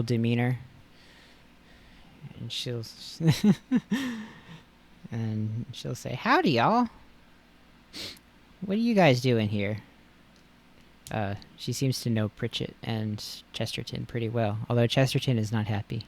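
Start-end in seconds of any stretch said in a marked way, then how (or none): 6.1-9.8 high, bright country greeting; cheerful Lickitung voice. Acted.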